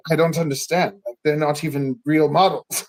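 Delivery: lightly imitated Russian accent, unimpressed; Russian model. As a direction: quote a baffled Russian model. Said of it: "there was this Russian model".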